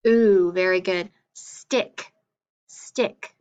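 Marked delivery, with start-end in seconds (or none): 0.1-0.5 "ooh" as the bare long vowel left from blue; "ooh" drawn out, no consonant before it; word without blend. Shown as a demonstration. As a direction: hold "ooh" alone as one pure sound. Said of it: "without the bull is just".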